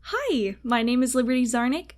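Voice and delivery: bright polite service greeting; customer service voice. Shown as a demonstration. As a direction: greet like a cheerful cashier. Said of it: "I'm so afraid to use my customer service voice".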